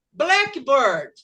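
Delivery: "Blackbird" joined, with the weight on BLACK; first word stressed. Shown as a demonstration. Teacher leading students to repeat, "Blackbird" stressed on BLACK. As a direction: punch BLACK in "Blackbird", let BIRD fall. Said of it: "A primeira palavra vai puxar".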